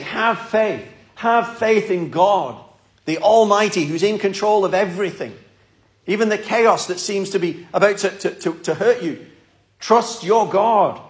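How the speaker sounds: a loving but firm push to trust; gentle rebuke. Retold or imitated. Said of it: "in this gentle rebuke".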